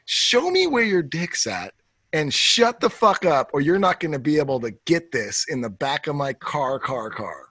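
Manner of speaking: fading mock paraphrase. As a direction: let it fade away. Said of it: "So you're pretty much saying".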